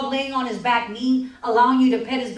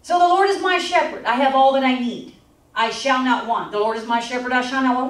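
scripture reading. Acted.

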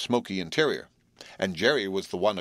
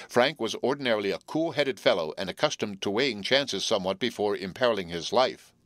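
usual speaking voice

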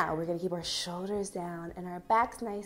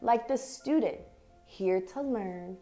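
measured, expressive picture-book reading with long pauses; reading to children; 3 semitones higher, 5 dB louder than usual. Acted. Teacher reads an affirming picture book to young dancers, expressive story reading. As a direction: read each short phrase deliberately, letting it settle.

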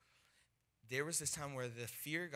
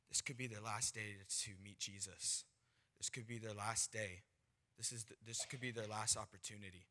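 lower, softened earnest plea; quietly sobering; 3 semitones lower, 5 dB quieter than usual. Retold or imitated. Friend urging him not to give up, quietly earnest. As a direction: say it gently and gravely.

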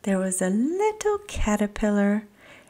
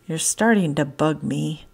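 growl; 4 semitones lower than usual. Acted. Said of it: "Oscar growled".

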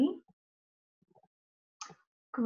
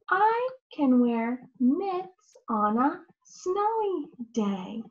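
model sentence. Shown as a demonstration. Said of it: "Great job".

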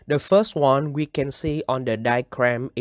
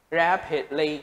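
"Rapidly" with RAP stressed; first-syllable stress; 2 semitones higher than usual. Shown as a demonstration. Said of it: "các bạn nhấn vào âm một".

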